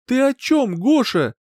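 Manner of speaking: high, loud outburst; mother crying out at the man. A narrator's reading. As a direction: cry out in disbelief. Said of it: "вскрикнула женщина".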